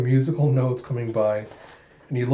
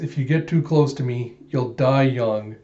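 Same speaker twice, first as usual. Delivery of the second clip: deadpan threat. Acted. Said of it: "with the absolute straightest face".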